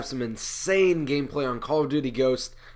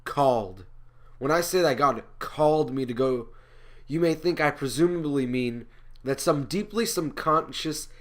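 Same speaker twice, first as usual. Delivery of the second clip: theatrical, measured monologue delivery; lightly acted prophet, emphatic and argumentative; Jonah addressing his listeners; 3 dB louder than usual. Jonah justifying his calling to an audience, declaimed. Performs rehearsed Jonah soliloquy for a speech contest.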